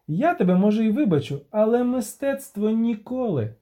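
cheeky performer scolding a stingy listener; showman bard. Acted. Dandelion performing for crowd.

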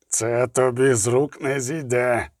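slow, breathy spy's threat on the ground; breathless gasp. Acted. A beaten spy gasps a threat at Geralt, slow and breathless. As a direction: push it out on an exhale, slowly. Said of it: "видихнув шпигун".

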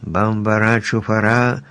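measured incantation of "Бамбара, чуфара"; reciting magic words. A narrator's reading. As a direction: read out a spell, word by word. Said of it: "Еллі почала вимовляти чарівні слова".

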